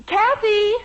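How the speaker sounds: flustered call to the kitchen. Acted. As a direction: call her name from the other room. Mother calling daughter from afar.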